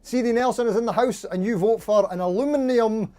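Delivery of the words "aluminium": "aluminium" said a-LOO-min-ee-um; "aluminium" as a-loo-MIN-ee-um, no y-sound; variant pronunciation. Shown as a demonstration. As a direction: say "aluminium" with a plain "loo", keeping the "ee-um" ending. Trying variant pronunciations of one word.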